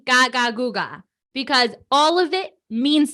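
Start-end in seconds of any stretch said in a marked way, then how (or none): 0.0-1.0 put-on baby babble.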